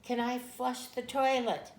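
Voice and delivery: put-on high, loud, slow child's shout; child screaming. Toddler shouts to mom from the trailer bathroom, high and loud. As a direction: shout it like a toddler across the campground. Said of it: "she was screaming out as loud as her little voice could".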